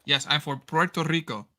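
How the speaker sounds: lightly put-on Spanish accent on English words; a hint of a Spanish accent, half joking; mock Spanish accent. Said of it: "like I speak Spanish with an accent".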